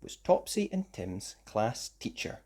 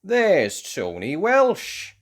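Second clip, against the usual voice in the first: excited call; 6 semitones higher, 6 dB louder, much slower than usual. A narrator's reading. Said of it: "said Tim".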